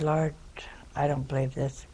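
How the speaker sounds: hushed, breathy aside to the Lord; whispered prayer. Retold or imitated. Teller whispers to God in disbelief.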